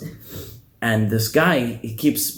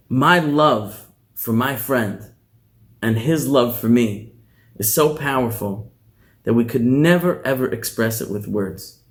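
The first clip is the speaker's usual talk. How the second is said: tender explanation. Acted. Rebbe gently explains love.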